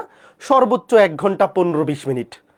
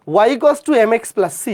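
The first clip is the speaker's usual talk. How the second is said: slow dictation; 4 semitones higher, much slower than usual. Shown as a demonstration. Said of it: "teacher dictating formula".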